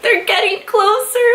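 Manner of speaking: high, slow, nervous aside; panicked fan under her breath; rising panic as they come closer; anxious whisper-like panic. Retold or imitated. Fan panics as idols approach.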